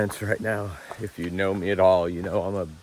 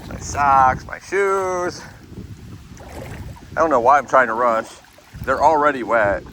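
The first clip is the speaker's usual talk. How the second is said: exasperated wet-feet outburst; 7 semitones higher, 7 dB louder, slower than usual. Real, not acted. Wading through a river, feet soaked.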